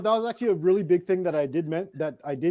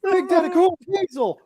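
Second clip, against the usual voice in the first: announcer voice; 12 semitones higher, 5 dB louder than usual. Retold or imitated. Rock impression of Diesel.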